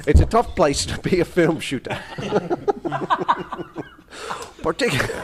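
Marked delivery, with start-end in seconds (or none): 0.1-2.0 lightly attempted Australian accent. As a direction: read it with a rough Australian accent. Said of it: "do my Australian accent".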